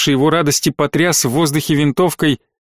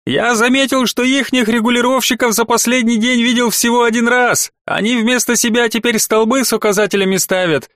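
confident; 7 semitones higher than usual. A narrator's reading. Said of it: "заявил уверенно Середа".

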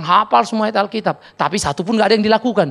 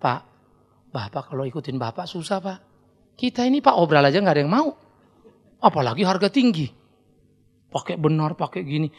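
mock whiny youth; 4 semitones lower than usual. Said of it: "Jangan bilang gini ya".

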